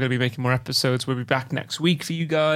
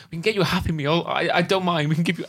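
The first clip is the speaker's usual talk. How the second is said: mildly panicked, raised pitch; panicking; 3 semitones higher than usual. Retold or imitated. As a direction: retell a nervous, pleading offer. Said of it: "like, panicking in this moment".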